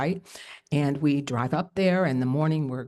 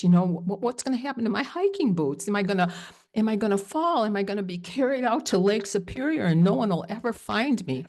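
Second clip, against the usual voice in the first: high, panicky rush of questions; recalling her panic at the river crossing, high and anxious; retold panic; 4 semitones higher than usual. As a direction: spiral into frightened questions. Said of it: "I have this fear".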